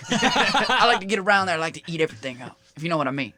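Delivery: lightly voiced folksy president; George W. Bush. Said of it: "I'm George W".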